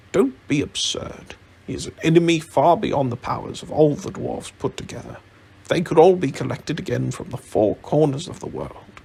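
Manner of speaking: exasperated wizard's telling-off; scolding rebuke. Acted. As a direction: put the foolish idea firmly down. Wizard rebukes Thorin's rash plan.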